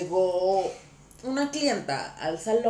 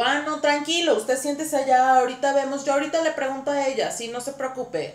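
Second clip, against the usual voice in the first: put-on bright Tijuana norteño accent, higher and louder; northern Mexican accent; 6 semitones higher, 4 dB louder than usual. Stylist reassuring a client's husband in a norteño accent. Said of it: "me hago norteña".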